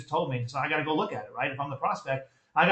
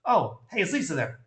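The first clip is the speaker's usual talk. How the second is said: casual phone greeting. Shown as a demonstration. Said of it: "Guy answers".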